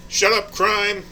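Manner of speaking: high, loud tough-cop bark; movie cop shout. Acted. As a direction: yell it like an action hero. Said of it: "drop his weapon and shut up".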